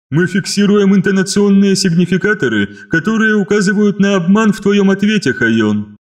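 high, loud, machine-like inhuman voice; eldritch horror. Acted. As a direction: state it like a cold hive mind. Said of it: "нечеловеческий голос".

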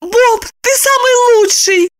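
high, loud overjoyed sister; delighted. A narrator's reading. Sister delighted that brother gave in, high and loud. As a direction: gush with delight. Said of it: "обрадовалась Евдокия".

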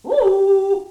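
high sing-song calling; teasing call. Acted. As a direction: coax him out like a pet. Charwoman calls to Gregor.

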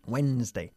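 "Wednesday" as WENZ-day, first d silent. Shown as a demonstration. Teacher showing the mute letter, "Wednesday" said WENZ-dei. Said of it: "La D queda absolutamente muda".

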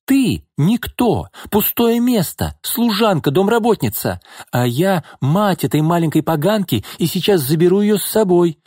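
high-pitched contemptuous tirade; scornful anger. A narrator's reading. Mother belittling the housemaid, scornfully angry. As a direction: put her in her place, word by word.

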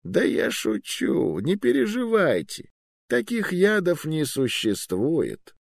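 put-on high, slow, good-natured old wizard; kindly grandfather chuckle. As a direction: laugh it off like a kind grandpa. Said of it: "рассмеялся смехом доброго дедушки".

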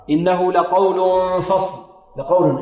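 slow recitation of إنه لقول فصل with emphatic ق; unhurried tajweed demonstration of لقول; heavy qaf. Shown as a demonstration. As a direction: make the ق in لقول full and heavy. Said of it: "عندنا القاف هنا مفخم".

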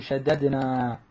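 شددنا as sha-dad-naa, each d heard; unmerged double d. Shown as a demonstration. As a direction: separate both d's in شددنا. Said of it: "وجب فك الإدغام". (شددنا بفك الإدغام، دالان منفصلتان)

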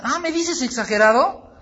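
high, loud incredulous retort; mock indignation. Preacher challenging a doubting brother, mock indignant. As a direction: throw the accusation back, rising at the end.

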